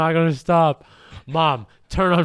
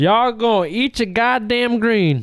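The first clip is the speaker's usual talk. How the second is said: slow, higher scolding parent; strict parent voice; 6 semitones higher, 3 dB louder than usual. Pretend. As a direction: lay down the rule like a strict mom.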